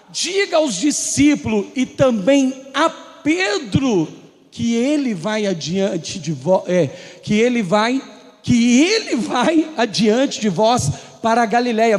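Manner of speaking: slow, solemn angel's command. Acted. Angel telling the women, slow and solemn. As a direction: deliver the angel's message slowly. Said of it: "quando o anjo fala assim".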